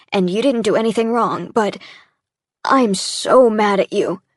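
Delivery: he finally lets the anger out at her; angry outburst. Acted. Sam confesses anger to his partner.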